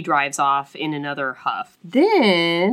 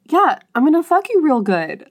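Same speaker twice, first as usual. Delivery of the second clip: high, louder, through laughter; laughing mock eager; 9 semitones higher, 5 dB louder than usual. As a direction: ham up the eager hero while laughing. Mocking hero's eager reply.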